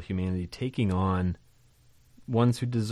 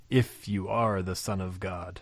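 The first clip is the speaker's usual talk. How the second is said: a hint of the film's Satan, teasing; devil voice; 2 semitones lower, 3 dB quieter than usual. Teacher quoting the Bible series devil, lightly voiced. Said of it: "that voice".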